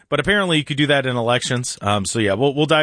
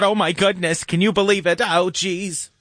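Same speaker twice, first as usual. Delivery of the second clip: Joy Behar impression; 4 semitones higher than usual. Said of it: "Joy Behart's gotta sit there and talk about".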